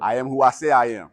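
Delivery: loud, punching each word; shouted affirmation. Shown as a demonstration. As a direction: call it out for the room to repeat. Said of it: "say that and believe that".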